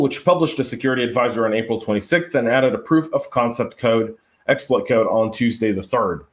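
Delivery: brisk news-story read; steady, businesslike news reading. Acted. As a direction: read out a security bulletin briskly.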